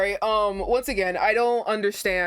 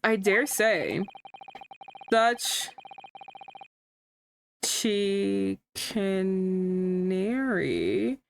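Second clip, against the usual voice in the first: pompous barrister; much slower than usual. Acted. Reads lawyer character lines.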